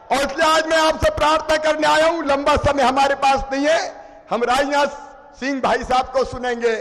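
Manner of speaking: fervent speech to a rally crowd; rousing stump speech; booming political rally speech. Acted.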